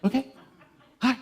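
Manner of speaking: a big dog's ecstatic greeting, way up high and loud; excited dog. Retold or imitated. Dog greeting owner at the door, wildly excited high yelps. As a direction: bounce off the walls like a lab whose owner just got home. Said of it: "they're exuberantly excited".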